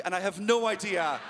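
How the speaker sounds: ordinary talk, nothing marked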